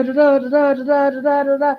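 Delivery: high repeated alarm chant; klaxon imitation. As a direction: sound like the ship's alarm.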